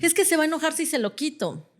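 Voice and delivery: lightly acted protest, rushed out; mock worried parent. Parent objecting to taking the phone away, mock worried.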